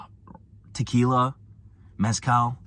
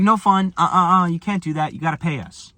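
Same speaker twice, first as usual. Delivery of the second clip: mocking authority; 4 semitones higher than usual. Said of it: "They're like".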